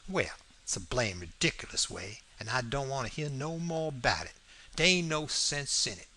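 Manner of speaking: mildly exasperated dialect character; a touch of huffy impatience; lightly voiced Jim. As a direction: dismiss it as Jim, in Southern dialect. Jim dismisses the French language.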